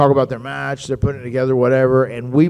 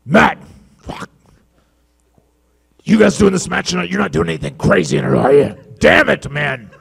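louder, fast exasperated worry; exasperated boss; 3 semitones higher, 5 dB louder than usual. Retold or imitated. Boss phoning in a panic about the match, louder. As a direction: fret and swear at him. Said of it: "He said".

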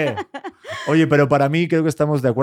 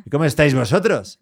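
imitating a clumsy Spain Spanish accent, getting louder; mock Spain Spanish accent; 5 dB louder than usual. Host mocking people who fake a Spain Spanish accent, growing louder. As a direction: parody a foreigner faking Castilian Spanish. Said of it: "intentan hacer el acento español".

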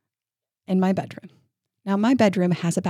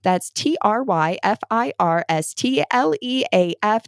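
upbeat host-read sponsor spot. Acted. Podcast host reading a wine club ad, ad read voice. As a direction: sell the wine club like a friendly recommendation.

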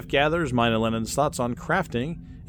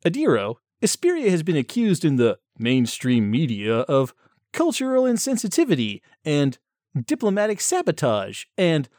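lightly voiced shopping channel host; chummy on-air product banter; home shopping host; 5 semitones higher, 3 dB louder than usual. Host poses press question.

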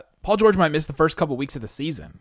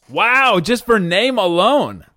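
loud, higher, slow mock outrage; mock shock; 6 semitones higher, 6 dB louder, much slower than usual. Real, not acted. Cohost reacting loudly to the Spurs name, mock shocked. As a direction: gasp at it in disbelief.

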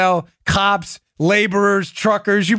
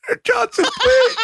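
higher, laughing mock whine; mocking Chuck Todd. Host imitating Chuck Todd pleading, laughing mock whine. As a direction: parrot him through laughter. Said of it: "I'm waiting for him to go".

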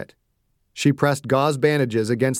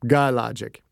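lower, matter-of-fact answer; flat man voice; 3 semitones lower, slower than usual. Acted. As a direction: confirm it low and flat.

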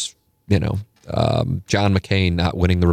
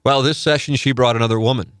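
reading a listener's story aloud; 2 semitones higher than usual. Acted. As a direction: read the submitted story with a bright lift. Reads erotic story aloud.

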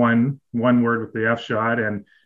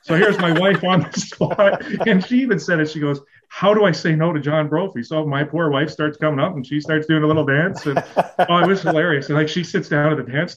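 amused, laughing telling; 4 semitones higher than usual. Real, not acted. Laughing retelling wife's dance.

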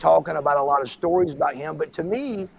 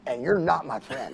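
low, softer cold put-down; cold quiet threat; 5 semitones lower, 6 dB quieter than usual. Retold or imitated. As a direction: quietly shut him down. Lex voiced, cold.

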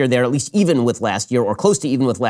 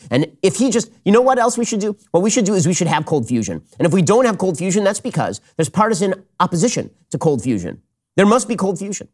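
higher, mock-earnest proclamation; sarcastic parody; 5 semitones higher than usual. Host parodying political promises, in mock-earnest proclamation. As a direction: pronounce it like a grand empty promise. Mocking parody of empty pronouncements.

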